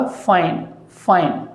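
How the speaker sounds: "फाइन" with a clear f sound; correct pronunciation. Shown as a demonstration. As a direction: stress the f in "फाइन". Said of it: "इसका जो उच्चारण होगा".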